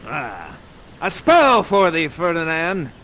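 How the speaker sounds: slow, mock-menacing; sly sorcerer. Prospero casting a spell on Ferdinand. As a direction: savor the spell as you cast it.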